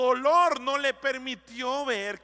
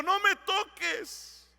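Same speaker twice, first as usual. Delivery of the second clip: Jesus gently warning; 3 semitones higher than usual. Retold or imitated. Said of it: "Y le dijo".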